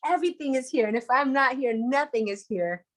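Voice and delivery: lightly voiced rabbi, gently amused; smiling, chuckling rabbi. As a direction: say it lightly through a contented smile. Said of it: "he's smiling and he's chuckling".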